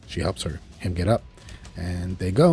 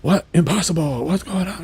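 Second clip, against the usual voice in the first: rising, higher disbelief; mock stunned villain; shocked villain; 8 semitones higher than usual. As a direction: gasp at the defeat. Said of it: "he's like".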